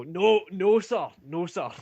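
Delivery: lightly voiced soldiers scrambling to deny; flustered guards.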